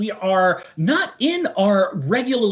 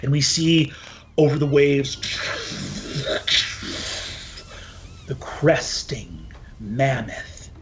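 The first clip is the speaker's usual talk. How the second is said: game master narration. Acted. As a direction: paint the sea voyage dramatically. DM sets the opening scene.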